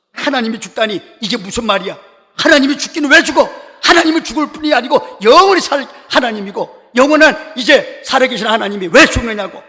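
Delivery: retold indignant rebuke, rising high and loud; Martin Luther scolding. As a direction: act out a husband thundering at his wife. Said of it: "이 루터가 부인을 호통치니까". (호통치는 흉내)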